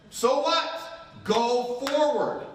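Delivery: high, slow insistent urging; father urging son up the hill, high and insistent; urging dad. Retold or imitated. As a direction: push him forward, high and slow.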